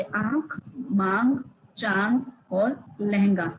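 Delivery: nasalised vowels in आंख and चांद, slowly; anunasik demo. Shown as a demonstration. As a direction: say आंख, मांग and चांद with the air going out through both nose and mouth. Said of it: "हवा नाक और मुंह से निकलती है". (नाक और मुंह से अनुनासिक उच्चारण)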